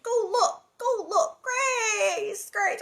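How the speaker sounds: high, loud, tearful crying; upset crying. A narrator's reading. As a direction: sob out in panic for the baby. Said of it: "Carrie's getting very upset".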